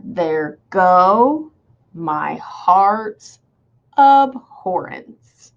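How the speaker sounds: "there go, my heart's abhorrence" in separated up-and-down beats; metrical scansion. Shown as a demonstration. Teacher scanning the line, exaggerated unstressed-stressed beats. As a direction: stretch each beat, pausing between "go", "heart's" and "abhorrence". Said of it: "'cause I go up".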